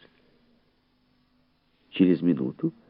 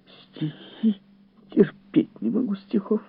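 high female voice of distaste; high, peevish dislike; disdainful lady guest; slower than usual. A narrator's reading. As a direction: object in a pitched-up lady's voice.

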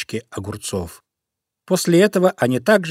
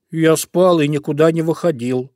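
louder, higher, rattled denial; flustered excuse; 5 semitones higher, 5 dB louder than usual. A narrator's reading. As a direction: protest helplessly. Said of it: "растерянно начал оправдываться". (растерянно)

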